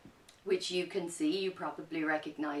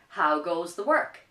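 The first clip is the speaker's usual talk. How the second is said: farmer calling; 8 dB louder than usual. Acted. Farmer's repeated demand.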